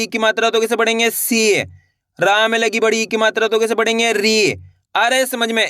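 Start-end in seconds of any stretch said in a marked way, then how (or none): 1.1-1.6 "सी" with a long held ee; drawn-out long ee. Shown as a demonstration. Teacher shows learners the matra, stretched "सी". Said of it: "खींच खींच के उच्चारण किया जाता है". 4.1-4.5 "री" with a long held ee; drawn-out long ee. Shown as a demonstration. Teacher shows learners the matra, stretched "री". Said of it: "खींच खींच के उच्चारण किया जाता है".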